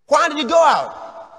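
a mother demanding answers; mock mother scolding. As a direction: play the angry mama. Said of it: "Mama says".

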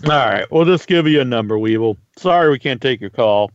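talking around a mint in the mouth; chewing a mint. Real, not acted. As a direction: speak while sucking a mint. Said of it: "Sorry I'm eating a, a mint on the show".

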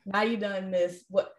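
mock a swamped rookie teacher complaining; overwhelmed young teacher. Coach imitating her first-year self, exasperated. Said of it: "first year teacher Taylor, I'm like".

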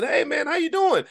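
high-pitched friendly holler; imitated yelling. Returning a stranger's greeting across the street, imitated yell. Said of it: "we were yelling back and forth".

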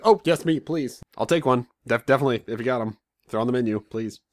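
grab the offer with relief; eager relief. Retold or imitated. Eagerly accepting a fork.

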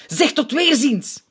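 high, loud, slow goodbye; loud slow farewell. A narrator's reading. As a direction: stretch it out over the square. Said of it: "klinkt het luid".

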